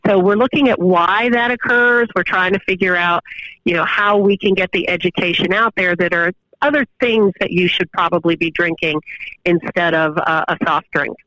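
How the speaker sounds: phone-line audio, thin and narrow; over the phone. Real, not acted. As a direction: sounds like a phone call. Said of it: "We're on the phone right now".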